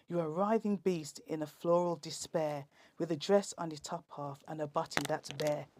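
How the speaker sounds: rhythmic, punchy performance-poetry delivery; comic poet performing verse for the listeners; poem recital. Acted. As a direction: lean into the rhymes and land each punchline.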